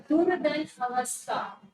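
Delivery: slow, split into its parts "दुर्धन अवस्था"; teacher slowly separating "दुर्धन" from "अवस्था"; word broken into parts. Shown as a demonstration. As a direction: draw out "दुर्धन अवस्था" part by part. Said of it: "दुरावस्था ऐसे नहीं लिखा जाता".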